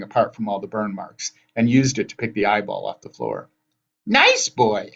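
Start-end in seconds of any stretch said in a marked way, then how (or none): 4.1-4.9 put-on high, loud coaxing old sister; crying-out hag. A narrator's reading. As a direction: call out high to coax. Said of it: "Anger cried".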